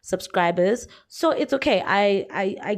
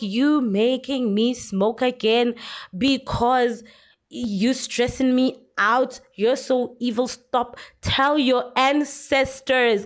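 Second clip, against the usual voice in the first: lightly voiced upset rant, slow; upset YouTuber; 3 semitones higher, slower than usual. Vlogger mimicking an upset YouTuber's slow rant. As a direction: mimic her stressed complaining. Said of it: "Lena's upset. She's like".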